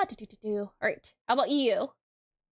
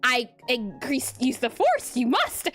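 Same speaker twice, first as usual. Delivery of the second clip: mock Yoda while working. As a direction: talk like Yoda at your desk, half joking. Holds mock Yoda speech.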